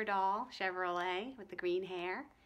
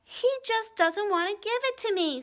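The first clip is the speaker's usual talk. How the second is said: higher and louder complaint; accusing girl; 10 semitones higher, 9 dB louder than usual. A narrator's reading. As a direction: tattle on him, upset. Ramona accuses.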